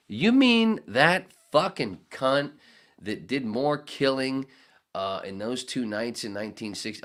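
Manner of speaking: loud, high, slow indignant yell; acted outrage. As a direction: punch out each word in loud disbelief.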